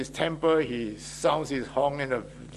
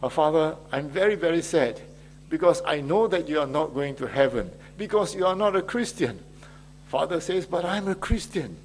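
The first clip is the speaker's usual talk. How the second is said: put-on child's voice; 4 semitones higher than usual. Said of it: "he tells the father".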